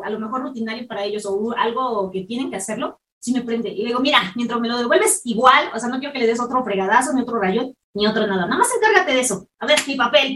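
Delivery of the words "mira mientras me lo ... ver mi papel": loud irritated retort; angry. Retold or imitated. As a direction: tell him off sharply.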